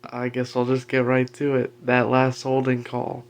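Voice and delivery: talking with a retainer in; mumbly words around a retainer. Real, not acted. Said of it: "I've got my retainer in, so I can't enunciate too well".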